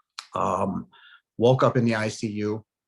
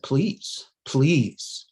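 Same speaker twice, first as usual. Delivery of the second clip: pleading; 3 semitones higher, much slower than usual. Retold or imitated. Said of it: "I said".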